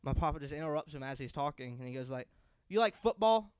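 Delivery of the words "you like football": higher, louder sudden question; abrupt grandpa question. Retold or imitated. Grandfather abruptly asking the stranger about football, higher and louder. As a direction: cut him off out of nowhere.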